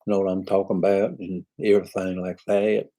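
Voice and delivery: light, imitated Southern American accent; Southern US accent demo. Shown as a demonstration. British singer demonstrating how Southerners talk, in Southern accent. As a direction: toss off a phrase in mock Southern. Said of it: "I think the Brits do the Southern accent the best".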